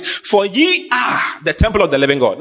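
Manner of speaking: "ye are" stressed, then the rest flows on; emphatic scripture reading. Acted. Preacher repeats the verse to show its emphasis, emphatic. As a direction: lean firmly on "ye are". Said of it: "he decided to even be emphatic".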